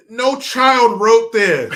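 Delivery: high, loud, slow laughing outburst; cracking up in disbelief at the letter. Real, not acted. Host laughing at the fake letter, loud and incredulous.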